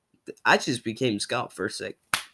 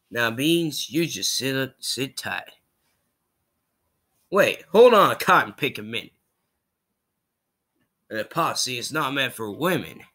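lightly voiced Southern sheriff; a hint of a cowboy lawman; mildly hammed-up Western character voice; Rango. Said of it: "Rango from Rango, of course".

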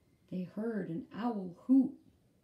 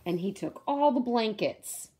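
rising higher and louder as he tosses; building excitement; 5 semitones higher, 5 dB louder than usual. A narrator's reading. Storyteller building up Harry's restless night, louder each line. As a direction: read it faster and bigger as the worry grows.

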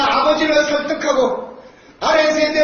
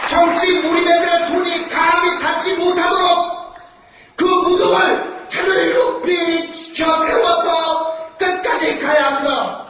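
roaring rallying speech. Real, not acted. Slow shouted rally climax.

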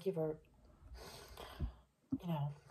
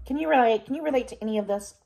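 excited; 6 semitones higher, 10 dB louder than usual. Real, not acted. Laughing, asking viewers to relate.

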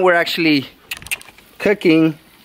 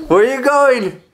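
higher-pitched singsong question; 6 semitones higher than usual. Real, not acted. Playful talk to toddler wandering off.

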